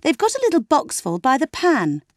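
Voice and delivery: high, ringing, carrying voice; clear and penetrating. A narrator's reading. Margot explaining to Leslie over dinner, ringing and clear. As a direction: make every word carry. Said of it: "in a clear and penetrating voice".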